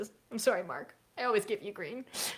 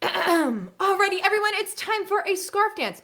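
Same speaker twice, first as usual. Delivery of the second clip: high, slow singsong call to the class; teacher class voice; 12 semitones higher, 4 dB louder, slower than usual. Shown as a demonstration. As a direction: sing it out brightly to the kids. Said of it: "I always say this".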